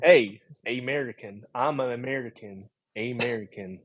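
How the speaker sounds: "American" started with AY, as ay-MER-ican; long-A American. Shown as a demonstration. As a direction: try out "American" with a long first A. Plays with saying American with long A.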